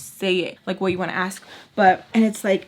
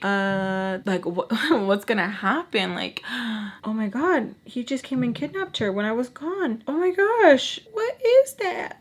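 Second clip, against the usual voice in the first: panicking; 3 semitones higher than usual. Retold or imitated. Telling viewers how she scared herself, mock panic. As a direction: re-enact your panic, pitch climbing into a gasped oh my gosh. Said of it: "panicking 'cause I'm like".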